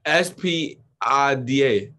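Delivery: S P I D A, slow letter by letter; mocking spelled-out spelling. Teasing how y'all say spider, slow spelled-out letters. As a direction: spell out S P I D A slowly, ending on A. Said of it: "Y'all say S".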